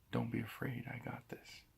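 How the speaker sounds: soft, hushed, fading into a whisper; a whispered promise of safety; whispered reassurance. Acted. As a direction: comfort them softly, as God beside them. God reassuring in the storm.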